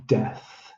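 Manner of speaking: death, soft and slow; drawn-out death. Shown as a demonstration. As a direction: sound out death carefully. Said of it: "how many sounds do I have to make there".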